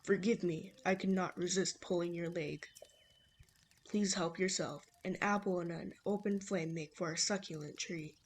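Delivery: lightly voiced old man; amateur old-man impression; man imitation. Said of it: "my horrible man imitation".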